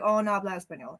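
put-on easy, natural Spanish accent; casual Spanish-accented reply. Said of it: "I can do the accent".

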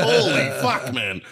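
high, loud mock shock. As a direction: yelp it out like the smell just hit you. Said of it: "I was like".

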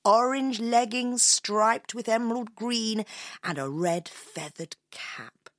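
measured, descriptive storyteller; story narration. A narrator's reading. Introducing the piper to a young listener, storytelling voice. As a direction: unveil the stranger phrase by phrase.

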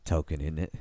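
put-on British tag question; random British accent. Tolkien introducing himself at the pub, botched British accent. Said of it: "do a random British accent".

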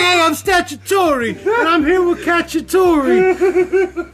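high, shouted rap intro; mock rapper hype. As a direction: hype up the talent show crowd. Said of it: "I'm like".

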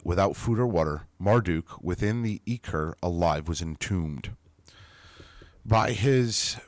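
measured read of an ancient account; storyteller reading scripture-like prose; text reading. Acted. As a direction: read it like a solemn chronicle. Reads the ancient text aloud.

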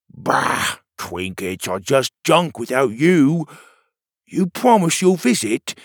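tearful goodbye. Acted. Petey voiced at farewell.

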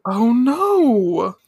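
high, drawn-out dismay; mock dismay. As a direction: cry out in hammed-up dismay. Acting Minako's dismay at bad news.

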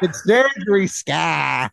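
put-on slow, stretched Boston accent. Bantering with friends, drawn-out mock Boston accent. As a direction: drag out the vowels in broad Boston. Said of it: "The Boston accent".

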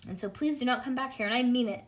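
fast, urgent begging; pleading child; frantic plea. Acted. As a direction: keep the teacher away, fast.

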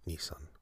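"Nissan" said NEE-sun; "Nissan" ending like "sun"; rejected pronunciation. Shown as a demonstration. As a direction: say "Nissan" with a reduced second vowel. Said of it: "but not Nissan".

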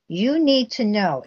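slow, sneering and arrogant; mock the brother's smug tone; imitating a sarcastic, arrogant brother. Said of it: "a very sarcastic, arrogant manner".

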